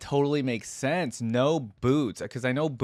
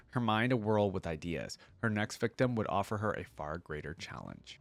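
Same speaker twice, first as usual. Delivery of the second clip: measured storyteller's read; audiobook-style narration; story narration. A narrator's reading. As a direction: read the tale aloud with deliberate phrasing. Reading story aloud.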